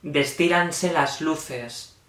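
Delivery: measured, solemn poetry reading; falling cadence at each verse end; poem recitation. Acted. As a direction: recite line by line, pausing after each phrase.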